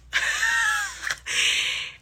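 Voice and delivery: a burst of high shrieking laughter. Real, not acted. Losing it over the story, a high shriek of laughter. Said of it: "¿yo estoy mala?".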